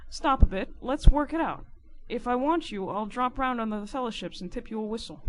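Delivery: forceful start, easing by the end; informer taking charge. Acted. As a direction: call a halt, then lay out the plan. Narrator voices Riderhood planning.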